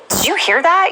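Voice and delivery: high-pitched, rising mock question; lightly acted incredulous question; retold startled question. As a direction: imitate a friend asking, pitch jumping up. Acts out friends' puzzled question.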